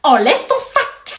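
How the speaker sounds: slow, every word hammered out; insistent order. Acted. Mother insisting the daughter remove her bag, slow and firm.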